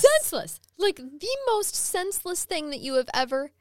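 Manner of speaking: lightly Southern and emphatic; Southern accent. Acted. Recapping the crime, in a light Southern accent. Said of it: "you got a Southern accent".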